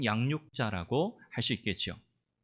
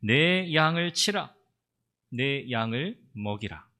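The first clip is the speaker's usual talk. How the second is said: solemn charge; slower than usual. Retold or imitated. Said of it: "그리고 주님 이렇게 말씀하시죠".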